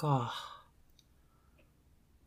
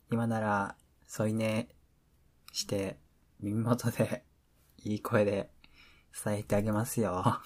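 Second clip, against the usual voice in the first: smooth pillow talk. Acted.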